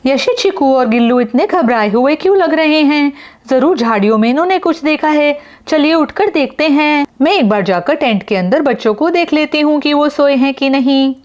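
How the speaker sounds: high-pitched wife figure; Yamini character voice. Acted. Yamini answers Yash about the noise, high character voice. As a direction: play Yamini, voice pitched well up.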